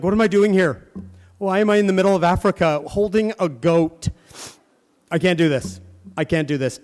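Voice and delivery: preacher voicing the missionary's despair; desperate missionary. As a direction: voice the homesick missionary at his breaking point. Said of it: "he starts to cry".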